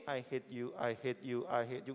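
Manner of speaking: low robot voice repeating I hate you; robot partner. Pretend. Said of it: "dia nggak mungkin ngomong gini". (suara robot rendah, mengulang)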